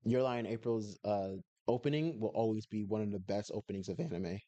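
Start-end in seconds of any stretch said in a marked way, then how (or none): 1.7-4.4 voice crack. Real, not acted. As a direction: voice cracking mid-sentence. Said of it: "Voice crack".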